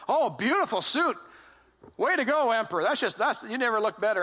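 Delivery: mock cheers from onlookers, big swoop at first; admiring crowd. Crowd praising the emperor on parade, hammed-up admiration. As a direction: gush like a flattering crowd. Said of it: "everybody starts going".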